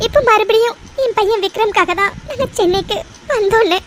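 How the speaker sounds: teary, halting confession; tearful confession. Acted. Mother unburdens her past to friend, teary. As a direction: hold back tears as you confess.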